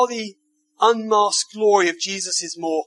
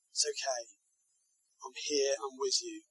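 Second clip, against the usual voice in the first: soft reassurance; 5 semitones lower, 10 dB quieter than usual. Pretend. Jesus comforting in the storm.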